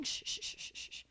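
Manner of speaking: put-on breathy shushing to calm a crying toddler; mother hushing her crying daughter on the toilet; soothing shush. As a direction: shush her gently, fading away. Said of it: "I'd be like".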